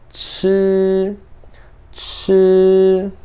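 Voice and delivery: chi high, long and level; first-tone chi. Shown as a demonstration. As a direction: hold chi on one high, steady pitch. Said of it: "Primeiro tom".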